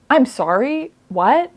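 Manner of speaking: I'm sorry, what, in disbelief; baffled double-take at the line; incredulous. Real, not acted. Reacting to the book in disbelief.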